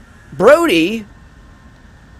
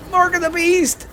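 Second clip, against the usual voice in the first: mock ominous; 13 semitones higher, 3 dB quieter than usual. Spooky ominous joke.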